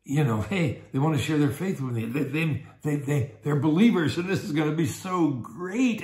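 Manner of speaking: mildly excited acted new friend. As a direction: build a touch of eager excitement. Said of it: "now you're getting excited".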